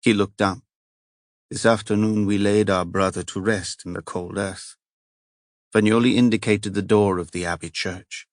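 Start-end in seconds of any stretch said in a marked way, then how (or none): 1.5-4.8 put-on heavy Italian accent. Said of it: "the heavy accent".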